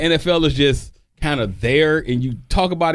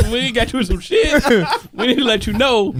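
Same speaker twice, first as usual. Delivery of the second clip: imitating Stacy; 5 semitones higher than usual. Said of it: "he delivered it like".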